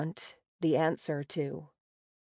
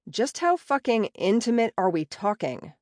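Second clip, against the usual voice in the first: louder, higher profane outburst; loud blurted question; 4 semitones higher than usual. Acted. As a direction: blurt it out with attitude. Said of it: "a hell of a lot louder than I'd planned".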